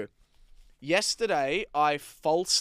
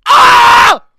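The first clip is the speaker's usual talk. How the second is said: sudden high shriek of embarrassment; cringing scream; 26 dB louder than usual. Real, not acted. Cringing at old message.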